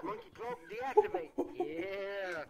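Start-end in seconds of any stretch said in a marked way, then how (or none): 0.0-1.3 voice command. Real, not acted. Commanding his cloak aloud.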